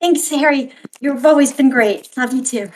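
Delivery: hugged and thanking Harry brightly; bright thanks. Acted. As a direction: beam at him as you thank him.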